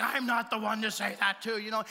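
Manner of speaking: acting like an idiot. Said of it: "And I act like a total idiot".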